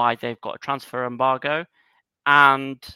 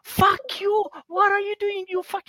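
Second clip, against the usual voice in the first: much higher, louder furious halftime yell; imitating raging coach; 4 dB louder than usual. Head coach tearing into his players at halftime, furious high-pitched screaming. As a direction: scream abuse at the team like an unhinged manager. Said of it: "and he's going".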